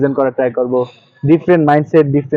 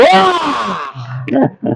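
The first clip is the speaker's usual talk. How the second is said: short sudden yell, higher; demo yell; 7 semitones higher, 4 dB quieter than usual. Shown as a demonstration. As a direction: let out one quick shout. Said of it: "আমি এখন চিল্লাবো".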